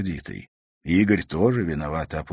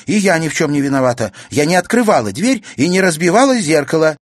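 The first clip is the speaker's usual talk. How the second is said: fast, higher, louder denial; heated protest; 9 semitones higher, 8 dB louder, faster than usual. Acted. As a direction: rush to defend herself. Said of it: "с жаром воскликнула Катерина".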